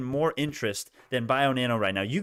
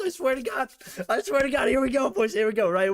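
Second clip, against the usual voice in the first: high-pitched giddy vow; real giddy excitement; 10 semitones higher than usual. Real, not acted. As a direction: squeal it like the stock's about to pop. Stock breaking out, hype.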